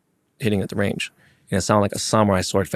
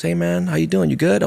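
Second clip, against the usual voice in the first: higher-pitched imitation of a friendly pro; retold friendly greeting; 7 semitones higher than usual. Pro golfer checks on a nervous amateur, high retold greeting. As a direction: lift the voice for a casual imitated hello.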